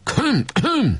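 very high, mock ominous ahem; ominous throat clearing. Barabás clearing his throat ominously before speaking. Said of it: "köszörülte a torkát vészjóslóan".

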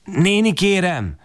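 put-on high, slow timid child's begging; humble plea. A narrator's reading. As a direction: beg the old woman meekly. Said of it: "szólok be alázatosan". (alázatos, magas kérlelés)

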